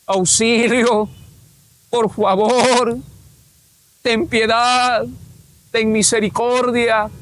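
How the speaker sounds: drawn-out cries for help, not shouted; stretched, mock wailing plea; imitated pleading cries. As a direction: slowly plead for mercy, acting out the tormented. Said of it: "muchos ahí gritando, estaban en este plan".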